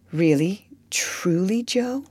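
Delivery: breathless whisper rising; whispered question. Acted. Laurie asking Joe in a hushed whisper. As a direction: barely dare to ask it. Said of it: "He stopped short ... put his question".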